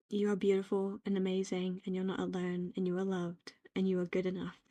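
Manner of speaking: low, soft affirmations; tender reassurance. Real, not acted. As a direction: reassure the listener gently and quietly. Reassures the listener directly.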